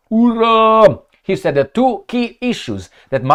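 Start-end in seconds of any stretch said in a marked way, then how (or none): 0.1-1.0 high, drawn-out mock hurrah; mock cheer. Commentator cheers a news report on peace hopes, mock cheer. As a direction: cheer with put-on enthusiasm.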